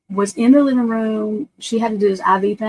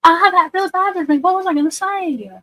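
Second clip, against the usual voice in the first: frustrated; 11 semitones higher than usual. Real, not acted. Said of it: "I'm mad now".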